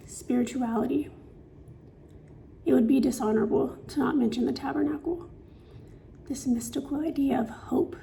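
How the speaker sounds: measured, slightly hushed verse reading; poetry reading. Acted. Author reads poem on faith to viewers, measured recital. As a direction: recite it phrase by phrase with pauses.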